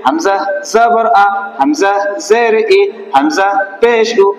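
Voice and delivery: slow, measured syllable-by-syllable recitation; spelling-drill recitation. Shown as a demonstration. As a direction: recite each letter and vowel slowly for a class.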